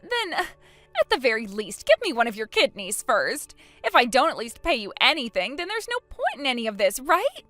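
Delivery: loud, urgent plea; acted desperate bargaining; desperate pleading. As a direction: beg loudly, rising on the final word. Pleads for a kidney.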